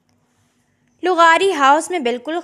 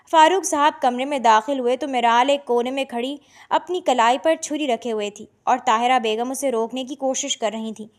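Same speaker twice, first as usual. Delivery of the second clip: ordinary delivery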